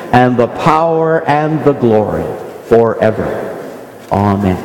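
measured, reverent recitation; prayer. Acted. Pastor leading the congregation in the Lord's Prayer, reverent.

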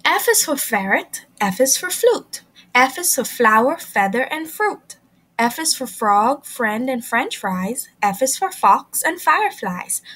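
bouncy sing-song letter rhyme; rhyme recital. Acted. Reading the letter rhyme to children, sing-song. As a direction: chant the F rhyme for kids.

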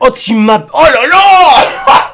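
loud, drawn-out high wail; real flustered squeal; high-pitched voice. Real, not acted. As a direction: cry out high, totally had. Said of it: "je commence à prendre ma voix aiguë".

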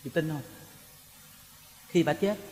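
ordinary talk

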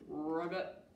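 low croaky ribbit; a low mock frog ribbit for the kids; frog croak. Frog sound in story game.

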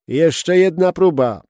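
loud, high and slow call. A narrator's reading. Skipper calls for another trial run, loud and slow. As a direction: call it out over the wind. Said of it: "zawołał".

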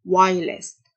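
whilst said wylst with no h; teacher shows whilst with silent h; silent h demo. Shown as a demonstration. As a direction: model whilst without the h. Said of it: "ال H silent".

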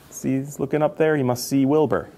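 usual speaking voice

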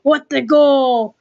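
hockey play-by-play voice; NHL commentator. Pretend. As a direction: call the game like a TV announcer. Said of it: "do my best impression of an N H L commentator".

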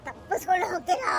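low menacing ghost voice; mocking ghost. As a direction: sneer like a ghost no one escapes. Ghost mocks escape attempt.

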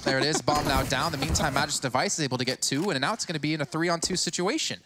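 rising, hyped play-by-play; excited caster. Real, not acted. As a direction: ride the hype through the clutch.

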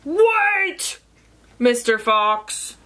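lightly played storybook bellow; bellowing rhino. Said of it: "bellowed Rhino".

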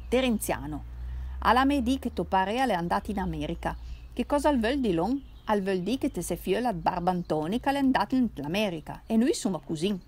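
lightly voiced Piedmontese drunk; tipsy Turinese cousin. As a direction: play the merry drunk relative from Turin.

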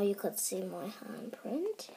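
soft whisper to camera. Real, not acted. Kid shows handprint while sister is near, whispering. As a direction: whisper it so nobody hears. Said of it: "So I have to be quiet".

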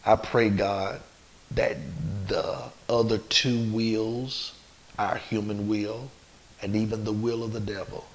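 measured prayer with long pauses; leading prayer. Real, not acted. Leads a prayer.

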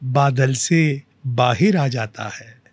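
slow, drawn-out verse, repeated line lifted; mushaira-style recital, lingering on each phrase; poetry recitation. Acted. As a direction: recite with long, measured pauses. Recites own verse to host.

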